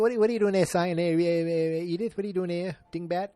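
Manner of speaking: fast, high grouchy husband impression; Archie Bunker. Host as the husband scolding his sighing wife, mock exasperation. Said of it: "He's like".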